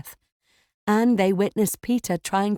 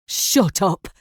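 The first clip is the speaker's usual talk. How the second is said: mild scream; 4 dB louder than usual. A narrator's reading. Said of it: "He's screaming like he's crazy".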